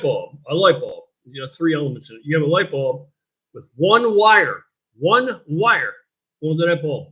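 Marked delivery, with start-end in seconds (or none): 3.5-5.9 « one wire » slow, each word weighted; slow stress on one wire. Shown as a demonstration. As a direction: drive home « one wire ».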